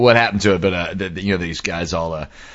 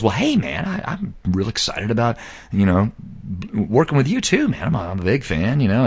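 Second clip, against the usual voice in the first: softer, halting fan confession; retold sincerity; 4 dB quieter than usual. Tim telling a musician he admires him, halting and mildly sincere. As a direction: hesitate through an earnest compliment. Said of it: "Tim feels obligated and, uh, uh, very sincere".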